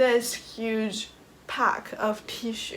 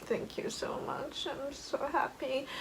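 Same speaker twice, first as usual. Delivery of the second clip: whispered thanks; 5 semitones higher, 7 dB quieter than usual. Retold or imitated. Soft thanks to interviewer.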